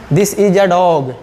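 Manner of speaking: a said as a short "uh", slow example; normal article a. Shown as a demonstration. Teacher models everyday spoken article for students, short "uh" pronunciation. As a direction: say a as unstressed "uh" before dog. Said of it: "ए का उच्चारण आ बोलिएगा".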